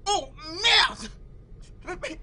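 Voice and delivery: shocked cry. Acted. Shocked at news of death.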